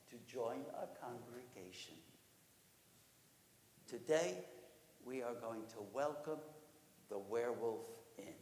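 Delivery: low, measured address to a congregation; solemn announcement. Acted. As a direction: announce it gravely, with pauses. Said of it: "he announced to all the assembled congregation".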